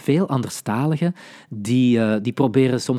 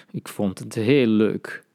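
sarcastic; slower than usual. Shown as a demonstration. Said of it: "dan was het waarschijnlijk niet zo leuk".

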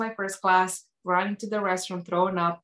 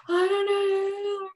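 high, long-drawn whine; mock helpless wail; 12 semitones higher, much slower than usual. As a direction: stretch it into a hammed-up helpless moan. Retold helpless answer when pressed.

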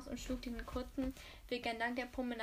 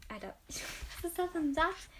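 laughing at the text; 5 semitones higher, 4 dB louder than usual. Real, not acted. Narrator stops reading and laughs at the sentence. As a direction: laugh at the clumsy sentence you just tripped over. Reader breaks off amused.

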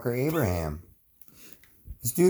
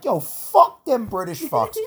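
slow, higher bro taunt; mock drunk founder; 7 semitones higher, 3 dB louder, slower than usual. Drunk founders curse the British, slow high bro voice. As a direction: drag it out like a drunk rebel.

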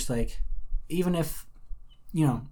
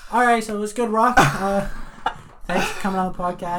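nervous high voice; 6 semitones higher, 3 dB louder than usual. Pretend. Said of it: "be like".

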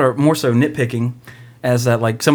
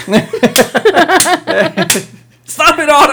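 pained yell; 6 dB louder than usual. Acted. Mock pain shout.

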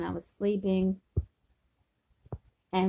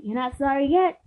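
breath before a lightly raised line; 5 semitones higher than usual. Retold or imitated. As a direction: imitate a threat as easy as breathing. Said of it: "he just took a breath with that".

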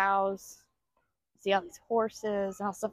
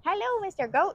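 excited gasp; 10 semitones higher than usual. Real, not acted. Spots the goat excitedly.

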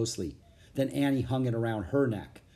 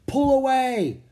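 very high, loud shout; full-voiced high cry; urgent cry; 13 semitones higher, 8 dB louder, slower than usual. A narrator's reading. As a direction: yell a desperate command. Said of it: "cried Annie".

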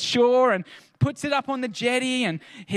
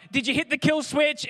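retold patronising question, pitched up; mildly condescending; 5 semitones higher than usual. Boat guy questioning a stranded customer, mildly condescending. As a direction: ask it as if imitating someone talking down. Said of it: "being a little bit condescending".

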